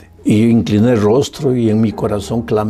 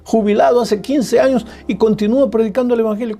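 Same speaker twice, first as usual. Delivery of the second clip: high, fast, driving pulpit voice; rising sermon fervor, fast and high; fervent preaching; 9 semitones higher than usual. Acted. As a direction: preach it out to the whole church. Preaching at full force.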